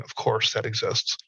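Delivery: slow, unimpressed shrug of a line; laughing resignation. Retold or imitated. Jaded veteran shrugging off the newest oddity, slow and dry. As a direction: say it like nothing shocks you anymore. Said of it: "laughing, going".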